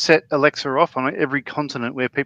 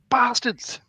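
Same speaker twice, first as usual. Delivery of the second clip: high-pitched cry at ordinary volume; mock scream; 8 semitones higher than usual. Moderator waking in the night, high mock scream. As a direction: imitate someone jolting awake with a curse. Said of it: "wakes up in the middle of the night screaming".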